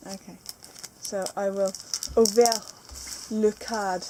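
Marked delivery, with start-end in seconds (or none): 2.1-4.0 slow, drawn-out pretend French; lightly hammed French phrase; mock French. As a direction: put on a playful French accent. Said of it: "That's like French or something".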